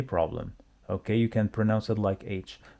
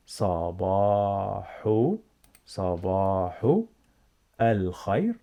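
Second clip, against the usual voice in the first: word by word; 2 semitones lower than usual. Shown as a demonstration. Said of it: "Let's see".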